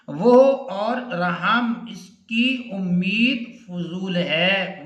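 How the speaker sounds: slow, scornful "वो और रहम" with the exclamation felt. Shown as a demonstration. Teacher reads an exclamation example to students, slow and scornful. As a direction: drawl out वो in disbelief at the idea of mercy. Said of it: "ये आगे अलामत आ गई अजीज तलबा फजाइया की".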